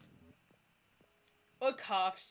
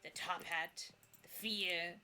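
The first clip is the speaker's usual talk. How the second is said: put-on creaky old ghost. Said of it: "The ghost voice creaks like ancient wood".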